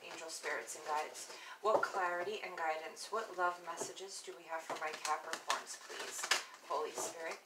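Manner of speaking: soft, hushed prayer to the spirits, fading to a whisper; murmured ritual chant over the cards; quiet invocation. Acted. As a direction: call on the spirits softly, like a prayer. Repeated invocation before the shuffle.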